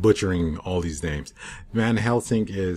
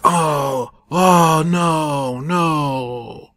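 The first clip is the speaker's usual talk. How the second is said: mock dismay; 6 semitones higher, 4 dB louder, much slower than usual. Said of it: "and he's like".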